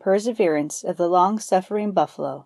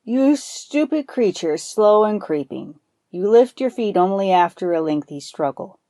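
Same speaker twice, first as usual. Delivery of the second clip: scornful cursing farmer. Acted. Farmer berating his buffalo in the field, mild scornful scolding. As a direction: scold the lazy beast, lightly voiced. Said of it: "the farmer cursed and whipped the animal".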